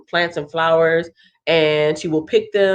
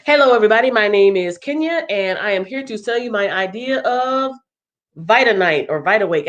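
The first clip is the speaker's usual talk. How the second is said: lightly performed presenter introduction; sample elevator pitch; 2 semitones higher than usual. Shown as a demonstration. Host showing participants how to pitch, lightly performed sales introduction. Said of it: "sixty second elevator pitch".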